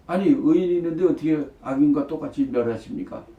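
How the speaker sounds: mildly acted indignant challenge; arguing. Abraham challenges God over the righteous, mild arguing. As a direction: press the question in imitated protest. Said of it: "이렇게 따지는 거예요".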